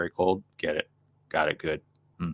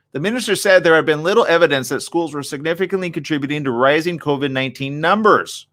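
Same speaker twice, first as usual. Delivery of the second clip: reading aloud; 5 semitones higher, 3 dB louder than usual. Real, not acted. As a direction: read the article out, slightly raised voice.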